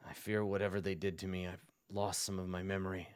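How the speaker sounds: hesitant, lightly voiced confession; troubled cleric. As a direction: confide haltingly, with a touch of unease.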